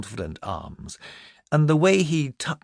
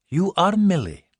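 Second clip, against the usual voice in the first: soft friendly; 8 semitones higher, 4 dB louder than usual. Acted. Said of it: "His voice was soft and friendly".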